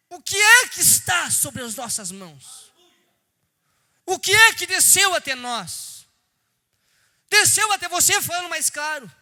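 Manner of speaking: loud, high preacher's appeal; preaching at full force. Acted. Preacher urging the church to claim their family, loud and high. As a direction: press the claim home to every listener.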